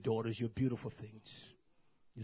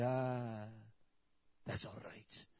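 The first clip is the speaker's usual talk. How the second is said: hushed approval; 4 dB quieter, much slower than usual. Acted. Acted quote of approving onlookers.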